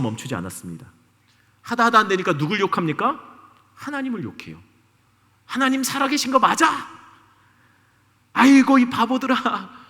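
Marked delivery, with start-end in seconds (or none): 5.5-9.8 preacher lightly voicing Goliath mocking God; mocking giant's cry. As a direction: jeer at the crowd in a hammed-up voice. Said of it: "막 외치기 시작했어요".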